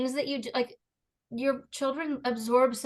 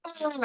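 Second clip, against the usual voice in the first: 1 imitated groan; 8 semitones higher, 5 dB quieter than usual. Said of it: "my kids both go".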